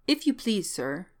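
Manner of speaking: lightly voiced servant, starting high; deferential old manservant. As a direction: pipe up politely as an old servant. Old manservant addresses the student.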